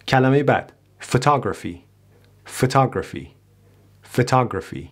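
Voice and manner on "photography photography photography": "Photography" starting with a weak "fuh"; unstressed schwa. Shown as a demonstration. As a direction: reduce the first vowel of "Photography" to schwa. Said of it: "دوباره هیچ فشاری روش نیست".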